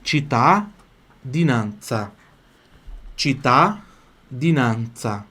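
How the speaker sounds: cittadinanza said slowly for students to echo; repeat-after-me cittadinanza; slow model to repeat. Shown as a demonstration. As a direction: model cittadinanza slowly, chi-ta-di-nan-tsa.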